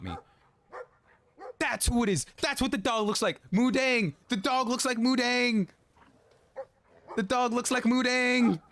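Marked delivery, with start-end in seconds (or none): 1.6-8.6 high, loud, thrilled recognition; excited shriek. Real, not acted. Gamer spots Mudang in the dog, shrieking with delight. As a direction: squeal it out as the penny drops.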